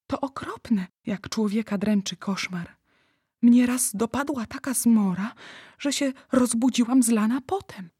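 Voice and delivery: put-on a little girl confiding her nightmare, troubled; young girl. Narrator voices the girl.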